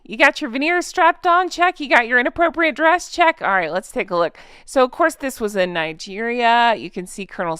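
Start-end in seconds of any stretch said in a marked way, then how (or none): 0.1-1.5 high, playful checklist question; ticking off a silly checklist, high; mock checklist. 1.5-1.8 high, perky "check"; chirpy check. Pretend. Mock checklist answer. 1.8-3.1 high, playful checklist question; ticking off a silly checklist, high; mock checklist. 3.1-3.4 high, perky "check"; chirpy check. Pretend. Mock checklist answer.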